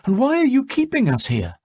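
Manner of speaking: demanding. A narrator's reading. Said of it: "Giui demanded".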